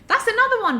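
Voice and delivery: suddenly remembering, thrilled; excited realisation. Real, not acted. Telling viewers about another use, excited and high.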